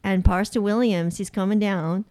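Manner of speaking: a lightly put-on Southern American accent; bad Southern accent. Australian cohost attempting a country Southern accent, lightly. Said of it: "with a southern accent".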